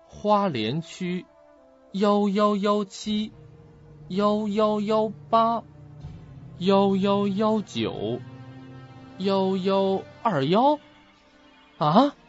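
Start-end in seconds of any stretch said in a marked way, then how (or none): 0.0-10.8 slow, drawn-out count along the gravestones; searching aloud, number by number; reading off numbers. Acted. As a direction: read each number slowly, stretching the digits.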